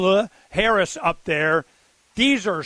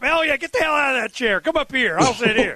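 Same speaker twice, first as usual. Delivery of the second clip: playing Trump; 6 semitones higher than usual. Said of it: "I'd be Trump".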